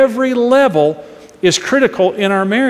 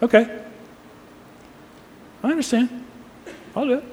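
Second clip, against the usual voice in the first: second way; 6 semitones higher, 8 dB quieter, much faster than usual. Shown as a demonstration. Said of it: "Here's the second way I'm gonna say it".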